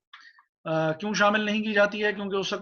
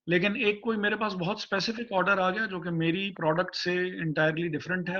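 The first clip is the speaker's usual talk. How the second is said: breaking up on a bad line; bad connection; faster than usual. Real, not acted. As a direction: voice cutting out over the call. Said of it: "आपकी आवाज़ कट रही है".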